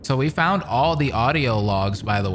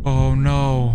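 being chased. Real, not acted.

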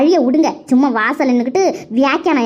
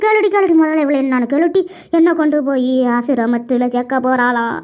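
urgent plea slowing into a wail; crying complaint; 2 semitones lower than usual. Acted. Mother urging her daughter to question the daughter-in-law, crying. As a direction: stretch the last words out into sobs. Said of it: "எங்க அம்மா என்ன இப்படி அழுகுறாங்களே?".

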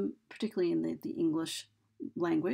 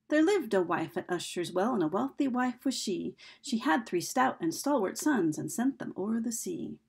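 metrical verse reading, beat on the stressed syllables; lilting ballad line reading; poem recitation; 2 semitones higher than usual. Shown as a demonstration. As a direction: recite a little ditty in iambic rhythm. Reads a ditty to show meter.

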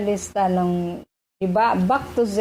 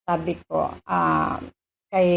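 ordinary talk

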